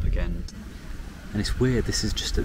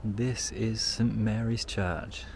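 hushed; 6 dB quieter, slower than usual. Real, not acted. Arriving at church, hushed.

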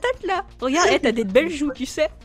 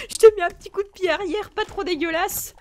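higher-pitched, laughing playful boast; amused play-fight taunt; laughing gloat; 3 semitones higher than usual. Real, not acted. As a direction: tease through a laugh, pitched up.

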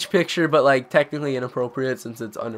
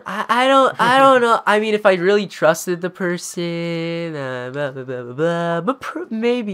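hedging; 2 semitones higher than usual. Acted. Girl dodging a question during twenty-one questions, hedging. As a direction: stall and waffle through a mock uncertain answer. Acting out her coy hedging answer.

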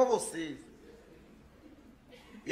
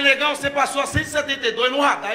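1 exasperated yell; 2 semitones higher, 5 dB louder than usual. Retold or imitated. Yelling about the speed camera.

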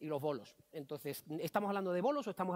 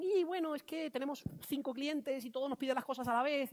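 higher, hesitant team voice; imitated team complaint; 6 semitones higher than usual. Team explaining client demands to facilitator, imitated complaint.

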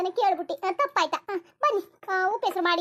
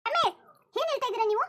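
raised-pitch indignant challenge; 5 semitones higher than usual. Acted. Wife objects to husband comparing the baby to her daughter, indignant. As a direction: call the husband out, pitched up and affronted.

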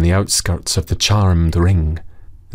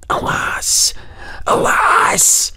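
sorrowful cry; much slower than usual. Acted. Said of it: "he exclaimed".

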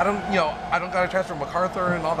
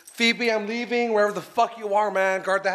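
calling out; 5 semitones higher than usual. Real, not acted. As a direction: call out to someone in another room. Calling out to the dog.

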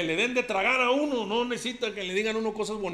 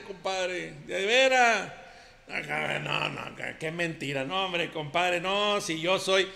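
ranchero macho compadre; 3 semitones higher than usual. Acted. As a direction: play the swaggering macho who denies everything. Macho compadre character monologue. (compadre ranchero presumido y bravucón)

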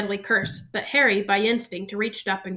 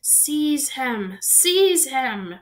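higher, louder shrieking order; 5 semitones higher, 4 dB louder, much slower than usual. A narrator's reading. Voldemort shrieking at Quirrell to seize Harry. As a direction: shriek it twice, frantic. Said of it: "shrieked Voldemort again".

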